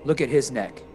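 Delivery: angry confrontation. Acted. Vaughn confronts Philo angrily.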